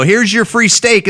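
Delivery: a waiter presenting the steak, sing-song; mock waiter. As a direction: hand it over like a grinning waiter.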